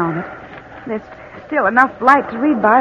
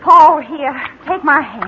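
urgent, louder call to him; 4 semitones higher, 4 dB louder, slower than usual. Acted. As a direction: call out fast to help him. Reaching out to help him.

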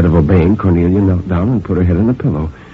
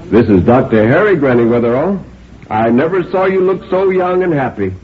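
doctor's voice rising high; cheery doctor greeting; 6 semitones higher than usual. A narrator's reading. Doctor flattering Granny Weatherall at her bedside, cheerily. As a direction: humour the patient with high-pitched cheer.

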